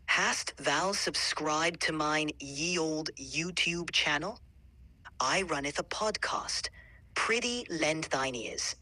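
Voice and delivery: slow, lightly theatrical Shakespearean English delivery; a playful taste of Shakespearean English, slowly. Shown as a demonstration. AI performs Shakespearean English on request, slow and light. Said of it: "Here's a taste of what it might have sounded like".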